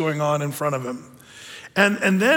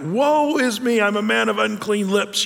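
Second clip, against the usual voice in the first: Isaiah's lament; 3 semitones higher than usual. Retold or imitated. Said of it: "Isaiah the prophet talks like that".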